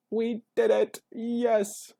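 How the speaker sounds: very high, loud celebratory squeal; rising, overjoyed. Real, not acted. Player celebrating the deck to viewers, overjoyed squealing. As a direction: shriek it with giddy delight. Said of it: "is definitely rising up".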